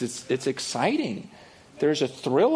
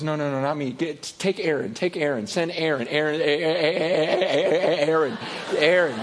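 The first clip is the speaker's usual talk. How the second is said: pleading Moses. Retold or imitated. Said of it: "And Moses goes".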